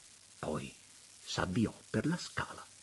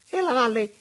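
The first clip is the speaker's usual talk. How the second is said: "E la valle?" leaps much higher and louder; "E la valle?" asked again far higher, almost squealed; soaring repeat; 9 dB louder than usual. A narrator's reading. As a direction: repeat "E la valle?" shooting up in pitch.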